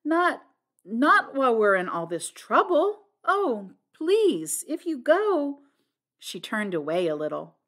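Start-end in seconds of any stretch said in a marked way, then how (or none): 0.0-5.6 high, loud, pleading outburst; dismayed cry. A narrator's reading. Flora begging Blunt not to leave, crying out in dismay. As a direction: plead in broken, lifted phrases. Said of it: "cried Flora".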